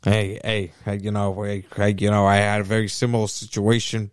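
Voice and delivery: lightly voiced Al Pacino, rambling and hoarse-free; Al Pacino impression. Chatting to Bob about having kids, in a lightly voiced Al Pacino. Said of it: "Pellegrino is Al Pacino".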